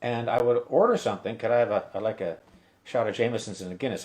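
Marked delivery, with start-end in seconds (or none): 1.4-4.0 quick, put-on Irish accent. American in a Dublin pub ordering in mock Irish accent. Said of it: "full tilt Irish".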